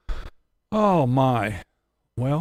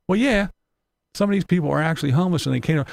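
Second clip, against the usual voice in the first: higher, fast reasonable objection; mock reasonable voice; 5 semitones higher, 4 dB louder, faster than usual. Quoting someone who points out real homelessness, fast reasonable voice. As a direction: rattle off the sensible point quickly. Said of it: "if anybody else says".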